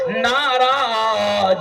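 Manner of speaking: slow, drawn-out Arabic recitation; قرآنی آیت کی دھیمی تلاوت; Quran recitation. Acted. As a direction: intone the verse with reverence.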